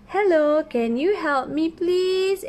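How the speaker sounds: alien asking. Acted. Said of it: "alien tanya".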